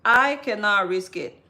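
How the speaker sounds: slow, emphatic declaration to herself; measured, determined retold thought; firm resolve. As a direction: spell out your decision slowly and firmly. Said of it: "So in my mind, I was like".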